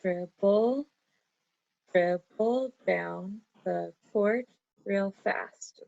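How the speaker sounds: slow, dribble held apart, then the line beat by beat; counting again. Shown as a demonstration. Teacher recounting the haiku line to check syllables. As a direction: count it out deliberately. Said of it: "I'm gonna count that again".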